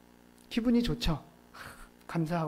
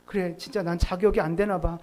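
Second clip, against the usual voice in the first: mock dejected sigh; 3 semitones lower than usual. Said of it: "낙심하는 거예요".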